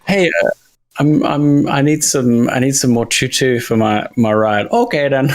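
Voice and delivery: hesitant, folksy Minnesotan; put-on Midwestern accent. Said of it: "like, a Minnesotan".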